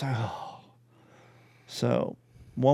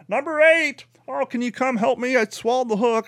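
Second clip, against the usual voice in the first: high, whiny mock girlfriend voice, pitched way up; mocking Carrie; 8 semitones higher than usual. Mocking Carrie's catches from the next kayak, high whiny voice. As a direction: mimic her calling for help sweetly.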